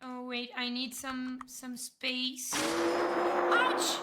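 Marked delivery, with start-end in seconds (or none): 2.5-4.0 startled yelp. Real, not acted. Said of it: "you scared me so much".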